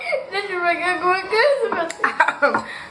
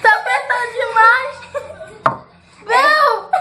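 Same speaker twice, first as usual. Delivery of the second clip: being squeezed hard; 5 semitones higher than usual. Real, not acted. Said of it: "minha cabeça tá estourando".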